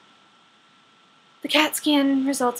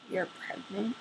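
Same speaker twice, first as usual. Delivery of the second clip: stunned question; 3 semitones lower, 13 dB quieter than usual. Retold or imitated. Dad stunned by news.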